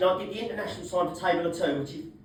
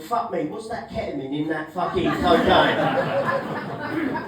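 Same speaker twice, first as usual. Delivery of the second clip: stunned mate; 3 semitones lower, much slower than usual. Retold or imitated.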